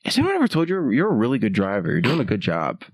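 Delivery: quick praise dropping to a whisper; put-on encouragement, hushed at the end; reassuring flattery. Shown as a demonstration. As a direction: demonstrate a soothing lie to a driver. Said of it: "All you do is you say this".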